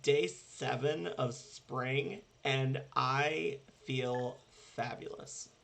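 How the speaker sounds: put-on slow, drawled Valley Girl voice. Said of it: "disturbingly good, um, Valley Girl voice".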